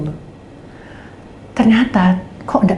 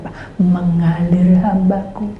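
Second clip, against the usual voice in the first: slow calm reply; slower than usual. Retold or imitated. God's calm reply voiced.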